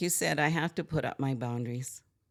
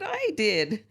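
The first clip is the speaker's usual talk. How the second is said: laughing; 8 semitones higher, 6 dB louder than usual. Retold or imitated. Admitting her swearing, laughing.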